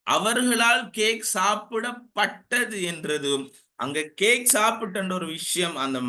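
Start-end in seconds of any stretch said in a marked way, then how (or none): 0.1-2.8 slower, higher, carefully spelled-out restatement; deliberate teacher's clarification; clarifying restatement. Shown as a demonstration. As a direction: lift the pitch and slow down to clarify. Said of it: "clear பண்றேன் திருப்பி".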